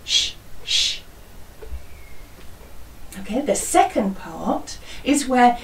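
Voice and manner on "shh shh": soft drawn-out shh; teacher showing the class the avalanche sound; avalanche shush. Shown as a demonstration. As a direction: hush like falling snow. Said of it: "we go".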